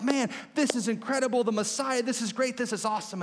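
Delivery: high, lightly acted elation; imitated giddy amazement; excited disciples. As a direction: gush like a thrilled disciple.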